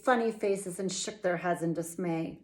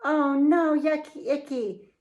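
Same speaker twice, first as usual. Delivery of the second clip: higher, louder mock disgust; hammed-up kid disgust; disgusted cry; 6 semitones higher, 4 dB louder than usual. A narrator's reading. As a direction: cry out yucky like kids.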